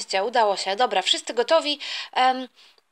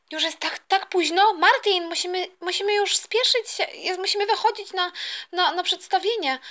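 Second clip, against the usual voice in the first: higher-pitched, fretful urging; hurried mother; 5 semitones higher than usual. Acted. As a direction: hurry the husband along in a higher voice. Mother hurries husband to leave.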